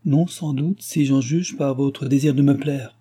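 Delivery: lightly acted royal lady brushing away doubts; a hint of a lively dauphine; gracious imperious dauphine.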